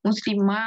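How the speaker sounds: মুসলিমা with a held final "maa"; long alif kept. Shown as a demonstration. Teacher shows which sound remains, long alif. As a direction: end মুসলিমা on a long open a. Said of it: "এই উচ্চারণটা থেকে যাবে".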